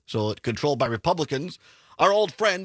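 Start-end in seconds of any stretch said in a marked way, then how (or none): 2.0-2.7 louder, raised mock-friendly tone; tongue-in-cheek emphasis, pushed up a little; sarcastic. Real, not acted. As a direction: say it with pointed sarcasm. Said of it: "I say that sarcastically".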